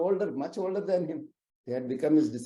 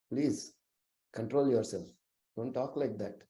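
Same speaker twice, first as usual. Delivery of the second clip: pacifying plea; 2 semitones lower, 5 dB quieter than usual. Retold or imitated. Dharmaraja pleads with raging Shishupala, mildly pacifying. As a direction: gently urge restraint, dropping away at the end. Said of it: "Dharmaraja tries to pacify him".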